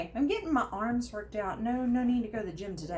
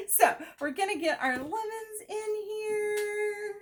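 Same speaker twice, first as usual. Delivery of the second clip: laughing through it; 11 semitones higher, much slower than usual. Real, not acted. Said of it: "please look away if I cry".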